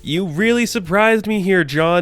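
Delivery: patronize him with fake approval; sarcastic. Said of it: "like, this weird sarcastic tone".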